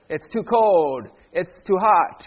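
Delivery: drawn-out mock complaint; mild put-on whine; mock whining. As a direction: lightly imitate a grumbling grown-up, stretching the words. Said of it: "grown-up people that whine".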